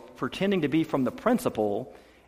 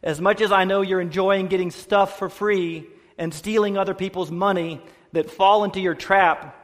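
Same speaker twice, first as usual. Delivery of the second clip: earnest, slightly raised read-aloud voice; reading a letter aloud; 4 semitones higher than usual. Acted. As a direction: read it out to the congregation with measured pauses. Reads son's letter aloud.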